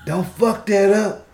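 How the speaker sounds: lightly voiced old-timer, loud; old cat. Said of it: "That's how them old cats".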